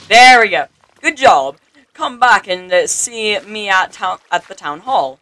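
hearty praise, easing into instruction; mildly theatrical guide; lightly voiced town advisor. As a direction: open loud and congratulatory as a game advisor.

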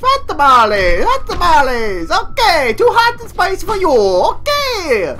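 high, exuberant mock-Italian accent. Gamer hawking hot tamales mid-game, hammed-up Italian accent. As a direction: ham up an Italian street-seller accent. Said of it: "took on Italian accent".

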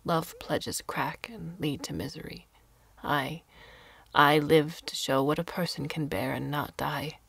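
put-on an old woman's grim vow, a touch of fervour; old hermit vowing to outlive Venice, intense but hushed; lightly voiced defiant old woman. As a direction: swear it like a curse on the world.

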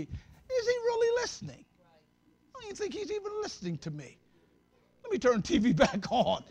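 high, doubtful inner voice, trailing off. Retold or imitated. Preacher voicing a doubting believer in a high doubtful tone. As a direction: whine the doubt like a sulky believer. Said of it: "then you start thinking".

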